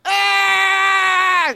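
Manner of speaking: high loud tantrum scream; shrieking tantrum child; toddler scream. Retold or imitated. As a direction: scream like a toddler losing a toy.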